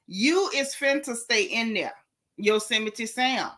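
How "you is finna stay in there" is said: Ocala vernacular. Shown as a demonstration. To the chat, Southern Ocala vernacular again. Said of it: "in the vernacular that I'm most comfortable with".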